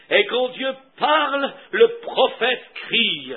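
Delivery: stretched, punched words in a driving sermon; forceful preaching. Acted. Preacher declaring that the king has spoken, forceful. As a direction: hammer home each beast's submission.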